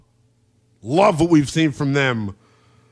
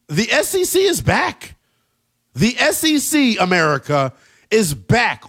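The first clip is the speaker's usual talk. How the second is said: excited; 5 semitones higher than usual. Real, not acted. Host hyping the conference's return.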